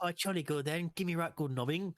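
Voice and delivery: high mock-British woman's voice; British bird. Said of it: "with a British bird".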